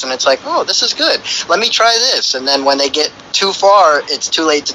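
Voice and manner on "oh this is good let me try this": higher, eager "this is good"; excited. Retold or imitated. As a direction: sound newly hooked and eager. Quoting a user who gets hooked.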